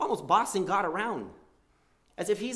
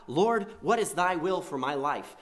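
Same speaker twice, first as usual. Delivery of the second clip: slow, reverent asking; humble prayer; 3 semitones higher, 4 dB louder, slower than usual. Retold or imitated. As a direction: pray it humbly and slowly.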